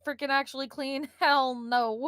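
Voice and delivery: loud, high protest breaking into laughter; laughing protest. Real, not acted. Player heckling game master's clean windmill, laughing loudly. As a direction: laugh through a loud objection.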